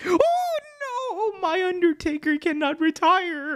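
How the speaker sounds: ghostly, mournful manager voice. Playing a summoned Paul Bearer in a bit, the speaker does a Paul Bearer impression. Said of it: "I can't really do a Paul Bearer impression".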